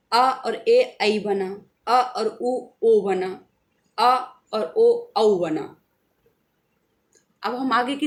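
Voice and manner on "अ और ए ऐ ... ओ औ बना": very slow, each vowel sound drawn apart; slow demonstration. Shown as a demonstration. Teacher showing students how two vowels join, very slow. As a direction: spell out the vowel joining slowly, sound by sound. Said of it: "स्वर जो दो स्वरों के मेल से बने हैं".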